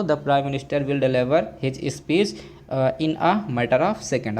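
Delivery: slow, word-by-word example sentence; slow classroom dictation; slow dictation pace. Shown as a demonstration. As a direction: spell it out slowly for students.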